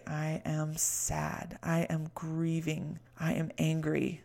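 slow, soft, steady statements; name each feeling gently and unhurried; calm naming of feelings. Shown as a demonstration. Coach modeling self-talk to listeners, slow and soft. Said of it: "You say".

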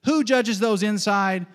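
high, slow drill question; catechism question. Shown as a demonstration. Preacher catechizing the congregation, catechism question. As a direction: lift "who judges those inside" and hold it out. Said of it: "I'm catechizing you".

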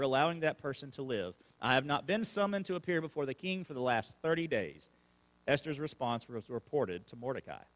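measured reading of the Bible to the church; scripture reading. Acted. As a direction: read the passage out steadily to the congregation. Reads scripture aloud to congregation.

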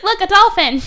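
high, loud excited cry; imitating an excited, high-pitched girl; mock excited. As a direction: point it out with childlike excitement. Retold child spots a dolphin.

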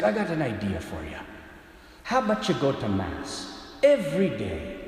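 Irish priest making a proposal; imitated Irish confessor; Irish accent. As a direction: pitch the idea in a put-on Irish lilt. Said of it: "gonna do my best Irish impersonation".

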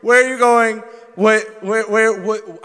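high, loud panicked cries. Retold or imitated. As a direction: panic as the knife slips. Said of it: "it's like".

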